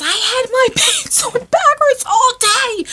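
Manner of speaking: high, slow words broken by a laugh; giggling it out to the kids; laughing retelling. Retold or imitated. Telling her kids the mistake, laughing. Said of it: "I said to my kids".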